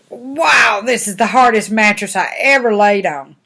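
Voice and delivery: storybook astonishment; amazed complaint. Acted. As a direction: exclaim at how bad it is. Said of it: "and she was like".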